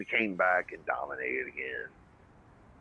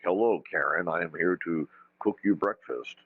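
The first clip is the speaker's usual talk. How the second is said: put-on TV no accent; 2 semitones lower than usual. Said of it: "people on T V where they don't have an accent".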